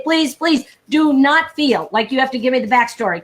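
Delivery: "Please, please" said sincerely and unhurried; mean every "please", no rush. Shown as a demonstration. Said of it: "but I say".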